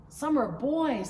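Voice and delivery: put-on child voice. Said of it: "said Samantha".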